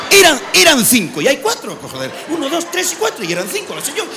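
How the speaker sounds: mock panic counting the bags; flustered tourist. Comedian plays a tourist frantically counting his suitcases.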